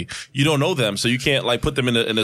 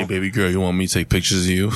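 creep voice; 4 semitones lower, faster than usual. Pretend. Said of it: "That was the creep voice".

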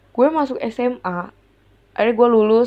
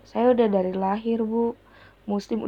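quiet, worn-out answer that fades away; limp, drained reply; 6 dB quieter than usual. Retold or imitated. Answering the religion teacher, weak and deflated. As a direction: answer as if the energy is gone. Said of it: "Udah lemes banget tuh gue".

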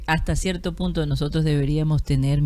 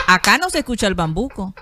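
laughing while talking; 3 semitones higher than usual. Real, not acted. Still laughing about bambuco.

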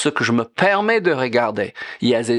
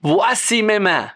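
prayerful offering; 4 semitones higher than usual. Retold or imitated. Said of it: "Quand je dis".

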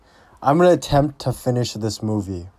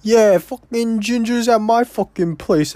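higher, louder hammed-up phone voice; mock Pesci call; 10 semitones higher, 3 dB louder than usual. Joe Pesci calling De Niro, a hint of mock mobster. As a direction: toss it off like an annoyed mobster on the phone. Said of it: "he's just like".

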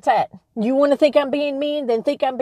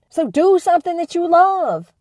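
urging shout; 3 semitones higher than usual. Real, not acted. Urging listeners to follow their passion, firm and forceful. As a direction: drive it home like a coach. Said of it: "I am yelling".

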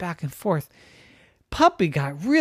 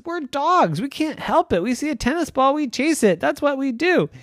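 dogs' voice; 10 semitones higher than usual. Acted.

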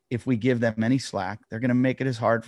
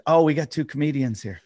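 mocking cop; 5 semitones higher than usual.

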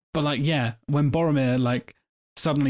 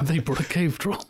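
laughing; 4 semitones higher than usual. Real, not acted. Repeating joke while laughing.

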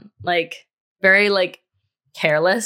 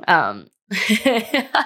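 a short real laugh breaking into the word; nervous laugh. Real, not acted. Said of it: "don't know why I'm laughing".

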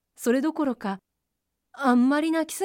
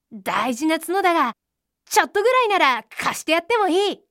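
higher-pitched rabbit, flattered and granting a favour; pleased rabbit; 4 semitones higher, 4 dB louder than usual. A narrator's reading. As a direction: play a rabbit pleased with its treasure. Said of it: "ウサギは嬉しくなって". (得意げで嬉しそうなウサギの声)

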